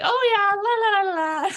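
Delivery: put-on high, loud child's show-off voice; imitating breezy children. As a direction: mimic a kid doing it effortlessly. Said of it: "they, they're like".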